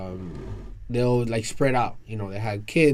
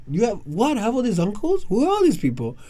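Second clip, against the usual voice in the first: higher, baffled questions; stunned disbelief; 11 semitones higher, 4 dB louder than usual. Retold or imitated. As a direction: ask it like you can't believe it. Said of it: "I'm like".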